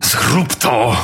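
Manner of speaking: a restrained thunder from a dying priest; thundering command. A narrator's reading. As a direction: command it with sudden force. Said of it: "zagrzmiał potężnym głosem".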